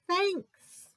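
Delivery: high Bear thanks. Acted. Bear's reply, high voice.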